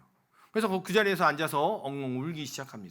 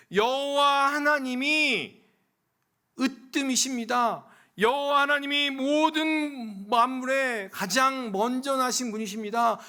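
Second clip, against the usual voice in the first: slow preaching proclamation; 7 semitones higher, 4 dB louder, slower than usual. Acted. Preacher proclaims God is first.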